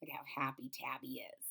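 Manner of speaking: hushed whispered aside; soft whisper over the picture. Real, not acted. Aside while showing the picture.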